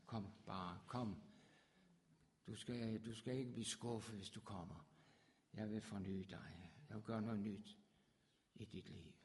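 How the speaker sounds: soft, low, tender call; gentle invitation. Acted. Preacher voicing God inviting the lost, soft tender call. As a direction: coax them home gently.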